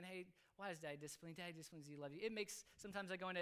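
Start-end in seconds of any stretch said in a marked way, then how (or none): 0.0-2.2 put-on soft, low talk to a child; gentle explaining. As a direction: tenderly explain it to your child. Father explains discipline to child.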